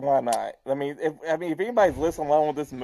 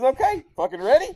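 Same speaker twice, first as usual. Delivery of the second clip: excited mock shout; 9 semitones higher, 5 dB louder than usual. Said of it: "He goes".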